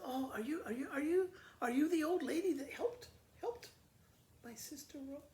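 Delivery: high, rushed eager question; greedy sister sucking up to the old lady. Acted. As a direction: fawn over her, stumbling in excitement. Rose eagerly asks the old lady.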